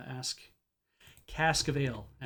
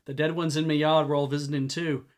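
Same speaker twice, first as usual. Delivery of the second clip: put-on trapper's lightly done Hadati accent; heavy Hadati drawl; 5 dB louder than usual. Scowling man to visitors at his door, Hadati drawl. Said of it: "drawled the man with a heavy Hadati accent".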